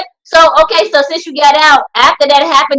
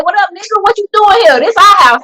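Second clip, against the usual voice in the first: imitated roach voice; 6 semitones higher than usual. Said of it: "Like how Juan said".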